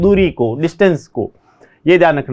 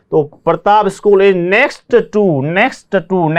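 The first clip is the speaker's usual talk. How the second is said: slow, leaning on next; stressed next; much slower than usual. Shown as a demonstration. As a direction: hit the word next for the class. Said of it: "next का प्रयोग कैसे करना है?". (next पर ज़ोर)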